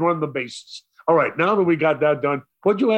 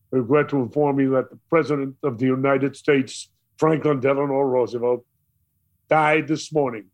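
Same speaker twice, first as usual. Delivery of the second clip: radio announcer. Retold or imitated. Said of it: "out of the radio came this".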